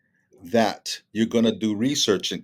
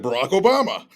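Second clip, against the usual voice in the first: mock confident answer; 8 semitones higher, 5 dB louder than usual.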